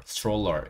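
stroller with a ch in place of t, "s-chroller". Shown as a demonstration. Teacher giving learners the pronunciation to copy, TR as CH. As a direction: say stroller with str blended into s-chr. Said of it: "이렇게 발음하시면 돼요".

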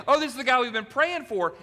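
excited whisper-shout. Retold or imitated. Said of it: "he's just like".

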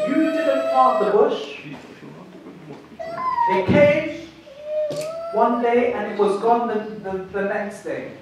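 lightly voiced God, patient and searching. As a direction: speak as God gently rebuking a sulking prophet. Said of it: "this is how God speaks".

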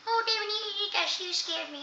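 lightly voiced nervous candlestick; a hint of a jumpy sidekick; candlestick, startled. Candlestick tells David it got scared.

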